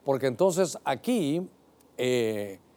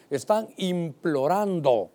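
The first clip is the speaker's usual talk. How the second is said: slow emphasis; slower than usual. Shown as a demonstration. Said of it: "es súplica, es un favor".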